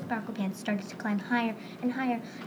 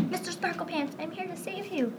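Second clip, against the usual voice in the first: yell; 7 semitones higher than usual. Acted. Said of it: "yelled Ralph".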